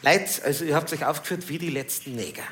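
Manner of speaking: soft Bavarian teacher voice; Bavarian accent. Retold or imitated. History teacher scolds his class, in Bavarian accent. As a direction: lightly put on a Bavarian dialect. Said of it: "wie man so in Bayern sagt".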